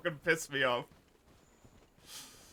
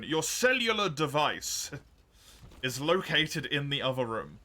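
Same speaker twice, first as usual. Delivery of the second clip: mock pedant. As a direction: parody an over-formal corrector. Mocking someone's pedantic correction.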